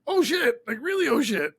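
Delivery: retold shock. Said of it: "and I'm like".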